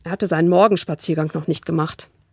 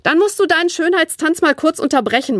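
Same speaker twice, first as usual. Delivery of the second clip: grumbling; 9 semitones higher than usual. A narrator's reading. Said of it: "maulte Flo".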